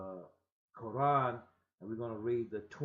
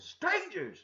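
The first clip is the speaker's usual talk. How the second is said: much higher, startled shout; shaken up; 4 dB louder than usual. Acted. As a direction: cry out in shock. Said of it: "he was shaken up".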